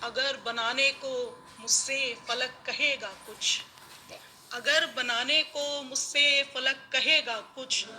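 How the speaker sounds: measured mushaira verse delivery; ghazal recitation. Acted. (मुशायरे में ग़ज़ल पढ़ने का अंदाज़)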